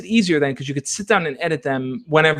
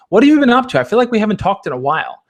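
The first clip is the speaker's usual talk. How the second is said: bright and friendly; 5 semitones higher, 5 dB louder, faster than usual. Shown as a demonstration. Sample friendly message to crush.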